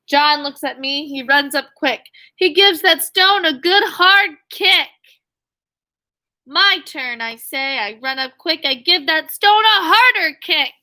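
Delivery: lively, sing-song storybook read; bouncy picture-book reading voice; reading to children. A narrator's reading. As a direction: read the rhyme aloud to young kids. Teacher reading picture book aloud.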